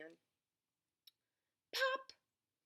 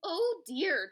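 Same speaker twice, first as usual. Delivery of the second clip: higher, louder dismay; tutting; 7 semitones higher, 8 dB louder than usual. A narrator's reading. Badger seeing the pile-up of racers, tutting. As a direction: tut with mild disapproval. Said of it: "tutted Badger".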